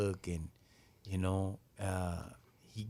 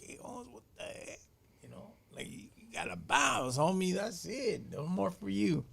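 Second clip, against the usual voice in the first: imitating a high voice; 10 semitones higher than usual.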